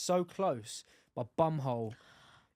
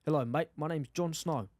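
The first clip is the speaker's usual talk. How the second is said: South African accent; 2 semitones lower than usual. Shown as a demonstration. Retrying Jon Snow for a co-host, South African accent. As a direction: have another go at sounding South African. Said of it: "South African".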